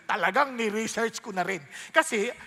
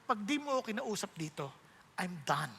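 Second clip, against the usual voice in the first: quiet desperate prayer; 2 semitones lower, 7 dB quieter than usual. Retold or imitated. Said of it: "Tapos sabi ko".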